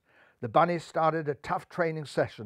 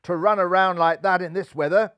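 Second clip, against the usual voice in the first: excited; 5 semitones higher, 4 dB louder than usual. A narrator's reading. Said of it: "exclaimed the bunnies".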